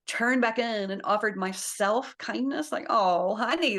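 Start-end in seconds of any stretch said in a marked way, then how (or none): 2.9-3.8 tender self-talk. Shown as a demonstration. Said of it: "this is how I talk to myself".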